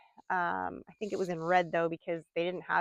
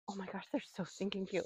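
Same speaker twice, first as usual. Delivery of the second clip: soft cooing; 12 dB quieter than usual. Real, not acted. Cooing at goats playing.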